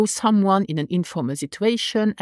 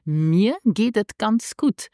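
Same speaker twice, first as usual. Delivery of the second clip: slow model phrase; 3 semitones higher, slower than usual. Shown as a demonstration. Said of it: "Or you can say".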